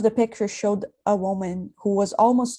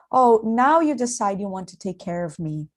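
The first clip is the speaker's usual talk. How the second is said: ironic. Acted. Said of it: "Her voice sounded a bit ironic".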